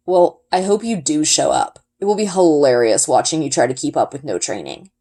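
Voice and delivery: a hint of a sneering rival boy. A narrator's reading. Tomas mocks her.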